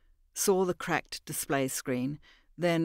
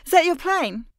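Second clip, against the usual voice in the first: Mira, nervous question; 11 semitones higher, 8 dB louder than usual. Acted.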